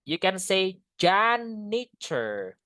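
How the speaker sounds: janitor said as "JAN-i-tor", slow and clear; slow model pronunciation. Shown as a demonstration. Teacher modelling janitor for the class, slow and clear. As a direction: read out janitor carefully, stretching it. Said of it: "Ini bacanya".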